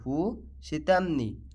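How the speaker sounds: হু সিতামনি said slowly, each syllable clear; slow it down so students can copy হু সিতামনি; slow teaching repeat. Shown as a demonstration. Teacher repeats the Arabic phrase for students, slowly. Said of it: "এর আরবি হবে হু সিতামনি".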